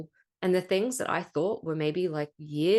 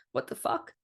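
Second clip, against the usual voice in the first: retold whispered curse. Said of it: "I was like".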